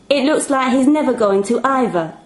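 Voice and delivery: put-on a fed-up little girl reasoning; Shania's voice. Shania speaking.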